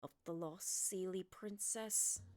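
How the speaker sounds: put-on slow, low old sage voice; the old man drops a secret, slowly. Old man voice against her own rereading.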